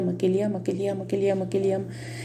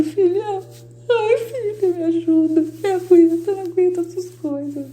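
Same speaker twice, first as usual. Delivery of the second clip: high, drawn-out pleading voice of a desperate Jesus; much higher, slow, pained plea; Jesus weeping in despair; 9 semitones higher, 3 dB louder, slower than usual. Retold or imitated. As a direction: plead like a weeping Jesus begging his daughter for help. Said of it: "porque Jesus tá dentro de mim, chorando, desesperado".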